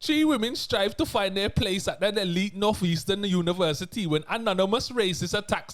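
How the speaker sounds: put-on reading a synopsis in a Bajan accent. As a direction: put on a Bajan lilt and read it out. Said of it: "I can try a Bajan accent".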